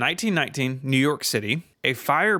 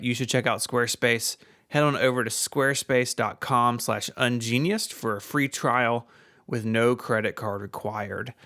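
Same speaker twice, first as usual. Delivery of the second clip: ad read. Acted. Sponsor ad read.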